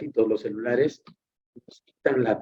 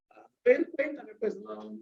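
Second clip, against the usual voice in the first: much higher, coaxing "tell me"; showing interest; 8 semitones higher, 6 dB quieter than usual. Shown as a demonstration. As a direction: invite the story, clearly interested. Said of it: "te demuestro cierto interés".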